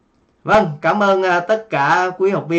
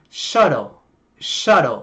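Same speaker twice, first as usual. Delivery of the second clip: American flapped t in "shuttle"; American accent; 3 dB louder, slower than usual. Shown as a demonstration. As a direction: say "shuttle" like "shudle", American style. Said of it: "Giọng Mỹ thì là".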